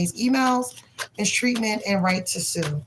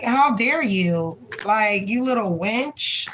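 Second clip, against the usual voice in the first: slow, drawn-out, indignant scolding; upset indignation; slower than usual. Real, not acted. Reader scolding the coworker who wronged the client, slow indignation. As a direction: spell out each word of the scolding, slowly. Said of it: "I'm just getting upset".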